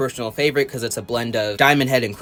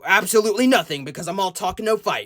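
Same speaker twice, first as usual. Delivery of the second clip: hammed-up, throat-straining angry brute voice; Wrath; 5 semitones higher than usual. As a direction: rant higher in mock menace, like a blustering cartoon bruiser. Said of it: "turn into Wrath and say".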